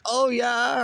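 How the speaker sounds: high squeaky oh yeah, like a sound alert. Retold or imitated. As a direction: pitch oh yeah way up like a meme clip. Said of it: "I always hear it as".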